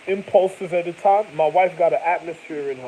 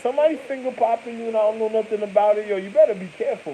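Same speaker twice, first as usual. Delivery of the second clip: mock warning; 7 semitones higher, 5 dB louder than usual. Warning the woman, acted threat.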